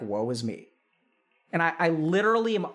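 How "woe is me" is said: mock self-pity. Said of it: "it's always like".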